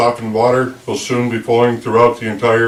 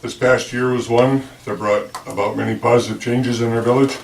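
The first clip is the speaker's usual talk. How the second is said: lisp; 4 semitones higher, 9 dB louder than usual. Real, not acted. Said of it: "I have this dental thing in my mouth and I lisp a lot".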